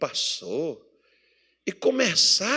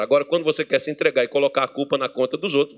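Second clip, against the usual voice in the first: ordinary talk, nothing marked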